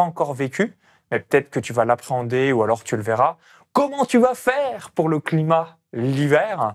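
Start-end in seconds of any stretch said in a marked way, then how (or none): 3.7-6.7 high, slow, emphatic question; voiced objection. Host putting the second common objection about winter, high and drawn-out. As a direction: draw out the objection as a pointed question. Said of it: "Et numéro deux".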